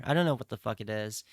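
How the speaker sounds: ordinary talk, nothing marked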